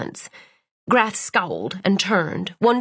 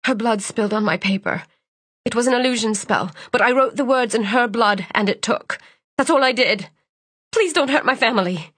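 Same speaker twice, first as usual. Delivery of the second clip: desperate plea; 3 semitones higher than usual. Acted. Terrified pleading to villain.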